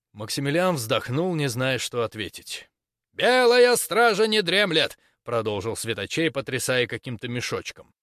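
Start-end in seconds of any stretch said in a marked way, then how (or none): 3.1-5.0 slow, high, loud declaring; loud proclamation. Acted. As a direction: proclaim it slowly to the crowd. Preacher proclaims to crowd.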